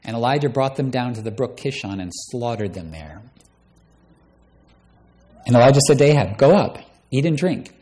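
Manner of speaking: preacher reading the Bible aloud with dramatic swings in voice; bold, theatrical Bible reading; dramatic scripture reading. Acted. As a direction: read the story like a pulpit drama. Preacher reads 1 Kings 18 aloud.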